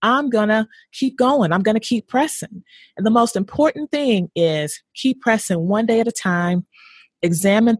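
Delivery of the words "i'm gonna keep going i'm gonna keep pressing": higher, quick, bouncing back; upbeat and determined. Retold or imitated. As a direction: shrug it off and push on. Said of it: "Or is it".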